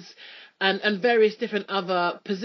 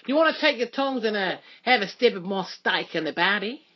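put-on Australian accent. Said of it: "my Australian accent".

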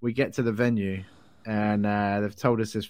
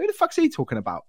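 mock outrage. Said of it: "I was like".

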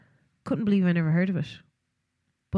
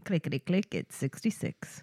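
bingo caller; 2 semitones lower, 6 dB quieter than usual. Acted. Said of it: "the bingo calls".

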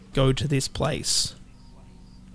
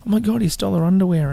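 shocked; 5 semitones higher, 5 dB louder, faster than usual. Retold or imitated. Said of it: "he's like".

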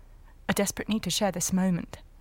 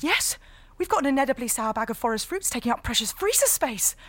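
excited; 4 semitones higher, faster than usual. Acted. Sudden excited idea.

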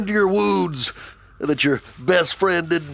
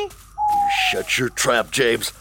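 high, slow angry retort; fed-up snap; slower than usual. Acted. Virgil telling drunk James off, angry. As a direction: shut him down hard.

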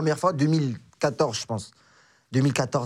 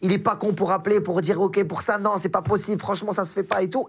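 mild retold anger; 5 semitones higher than usual. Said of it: "je me vénère".

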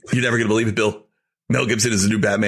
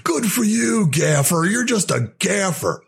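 mock sneering Bale; 10 semitones higher, slower than usual. Mocking Bale's sneer at the gaffer.

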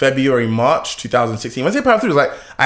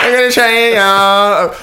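higher, louder hammed-up American accent; 8 semitones higher, 7 dB louder, slower than usual. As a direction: push the American accent, playing a rich kid. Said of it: "Is that your American accent?".

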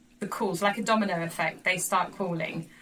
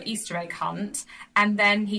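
normal talking voice

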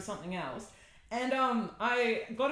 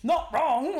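rueful admission; 8 semitones higher, 4 dB louder, slower than usual. Retold or imitated. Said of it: "I was like".

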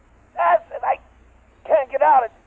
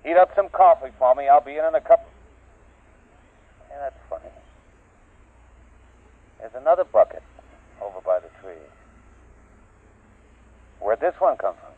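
throat mic; 4 dB louder than usual. Acted. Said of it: "He had a throat mic on".

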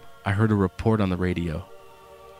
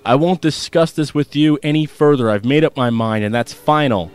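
raised voice; 2 semitones higher than usual. Acted. Father laying down the law to his son, stern raised voice. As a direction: put your foot down with the boy. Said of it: "found himself raising his voice".

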